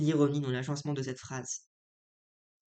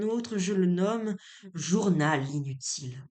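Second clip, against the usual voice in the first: measured, carefully phrased literary reading; lightly declaimed stage monologue; dramatic monologue reading. Acted. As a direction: read Figaro's monologue aloud with deliberate phrasing. Reads a play monologue aloud.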